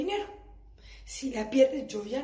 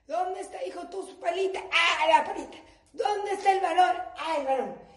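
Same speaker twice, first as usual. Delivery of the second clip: fussing mom; 5 semitones higher, 3 dB louder than usual. Retold or imitated. Mom searching for beach toys.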